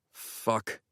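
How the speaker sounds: whispered fuck, head pounding; whispered curse. Real, not acted. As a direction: curse under your breath. Hungover narrator to himself.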